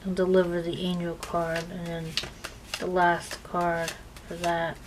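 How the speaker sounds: speaking through hiccups; interrupted by hiccups. Real, not acted. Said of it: "Oh, I'm hiccuping too".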